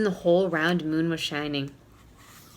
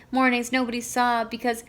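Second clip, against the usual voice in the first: sobbing; 4 semitones higher than usual. Acted. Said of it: "sobbed Owl".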